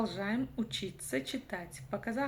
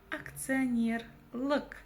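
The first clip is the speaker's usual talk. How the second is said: "Акционер лк" slow, with the ending set apart; slow teaching take of "Акционер лк"; syllable by syllable; 2 semitones higher, slower than usual. Shown as a demonstration. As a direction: stretch "Акционер" and detach "лк". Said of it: "нужно разделить по слогам".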